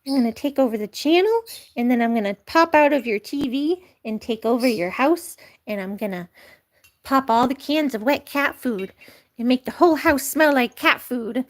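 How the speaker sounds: a hint of a scheming kitten; Lucky voice. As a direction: plot the takeover like a cat. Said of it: "Lucky, he's taking over".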